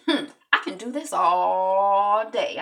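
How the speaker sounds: slow, drawn-out taunt. Retold or imitated. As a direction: tease him, taking your time. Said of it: "Black is like".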